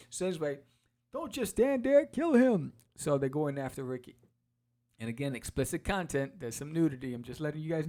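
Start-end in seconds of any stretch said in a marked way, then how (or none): 1.1-2.7 higher, louder command; barked order. Retold or imitated. Boss yells at his men to kill Ricky. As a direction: order the henchmen to attack.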